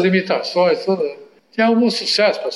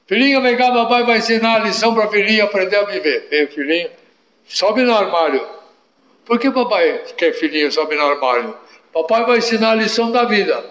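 hammed-up Arab father teaching his son a lesson; Arab father accent; 5 semitones higher than usual. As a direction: coax the boy in a put-on Arab accent. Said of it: "Eu era o papai".

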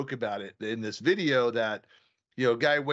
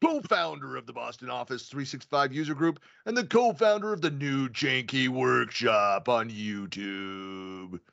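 fighting game announcer. Acted. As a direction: stretch each name like a ring announcer. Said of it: "I should do that".

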